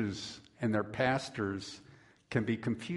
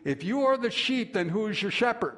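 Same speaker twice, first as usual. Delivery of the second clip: put-on high, pointed question to the children; dramatic pastor question; 7 semitones higher than usual. Pastor quizzing the children, high and dramatic. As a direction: ask it like a pastor making a big point. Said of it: "with raised eyebrows said to the children".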